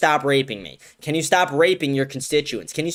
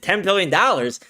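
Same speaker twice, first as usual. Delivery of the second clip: mock Netanyahu sneer; 5 semitones higher than usual. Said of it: "He said".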